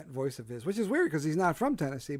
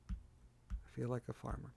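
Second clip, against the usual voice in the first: I feel like a farmer, said soft and slow to yourself; deadpan aside; 2 semitones lower, 15 dB quieter, slower than usual. Acted. Host repeating his farmer joke to himself, soft slow deadpan.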